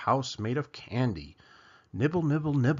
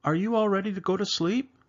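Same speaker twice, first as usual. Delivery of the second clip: papa voice; 7 semitones higher, faster than usual. Acted. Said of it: "said Papa".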